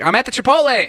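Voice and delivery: high, loud mock phone yell; retold exasperated yell. Friend answering his call to pick him up, exasperated yell. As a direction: imitate a fed-up friend yelling back.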